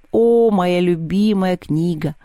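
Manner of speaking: drawn-out, gushing delight; thrilled exclamation with a long opening "oh"; excited outburst. Acted. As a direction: burst out slowly savouring each word. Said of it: "взвился Севка".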